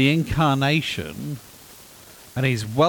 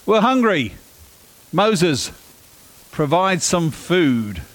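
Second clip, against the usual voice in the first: high, loud whingeing complaint; whiny Israelites; 7 semitones higher, 5 dB louder, slower than usual. Retold or imitated. Israel whining to Moses for food, loud and high. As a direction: whine at Moses like hungry kids. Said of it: "they sit there and go".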